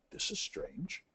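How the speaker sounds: hushed, breathy inner puzzlement; puzzled thought. Retold or imitated. Boss finding the air conditioner off again, hushed puzzled aside. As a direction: mutter it under your breath, baffled.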